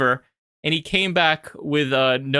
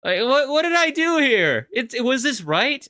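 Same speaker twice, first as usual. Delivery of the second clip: self-doubt; 8 semitones higher than usual. Retold or imitated. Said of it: "It's just like".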